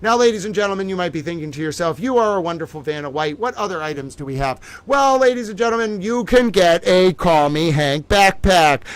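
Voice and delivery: lightly hammed-up Vanna White pitch; game show hostess. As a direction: sell it like a prize reveal. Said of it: "We have Towel Vanna White talking".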